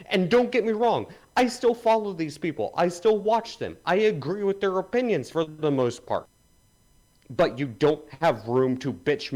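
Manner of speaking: fired-up rant against fellow critics; angry rant, building in heat. Real, not acted. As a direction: vent and scold the audience hard. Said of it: "go on your fucking rant".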